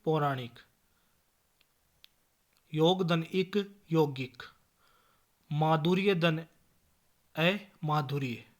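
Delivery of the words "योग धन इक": योग धन इक drawn out slowly; slow breakdown. Shown as a demonstration. Teacher breaking a word into parts, slowly. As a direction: spell it out slowly for students. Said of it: "spelling out a word's parts".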